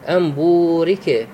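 slow Quranic recitation of بورك with the long u held for two counts; slow tajweed reading of أن بورك; recited with the long vowel. Shown as a demonstration. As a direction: stretch the و in بورك for two beats. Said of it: "طبعًا مقدار المد بورك بمقدار حركتين".

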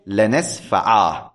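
لنسفعا ending in a long a, slowly; pausal alif. Shown as a demonstration. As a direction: stop on لنسفعا with a drawn final alif. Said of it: "إذا وقفت عليها قلت".

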